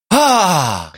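calm sigh. Retold or imitated. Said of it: "my brain goes".

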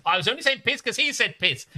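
high, loud defensive whine; imitated caught-out family member; mock protest. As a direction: plead innocence in a hammed-up squeal. Acted protest in the family row.

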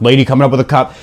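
plain radio announcement; radio call. Retold or imitated. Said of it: "this was a radio time of".

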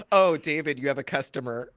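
loud, naive Big Bird call. Retold or imitated. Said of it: "Big Bird goes".

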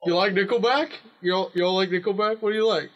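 high, coaxing creepy stranger. Acted. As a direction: lure them like a creep. Playing creepy van man.

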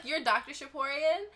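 high, rising disbelief; shocked. Retold or imitated. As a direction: react in stunned disbelief. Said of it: "And I was like".

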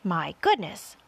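high, loud character voice; fussy centipede. A narrator's reading. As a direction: fret suddenly over a forgotten chore. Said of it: "the centipede said".

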